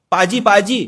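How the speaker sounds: loud, high call to someone. Acted. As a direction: hail him insistently by his title. Calling a man by his title.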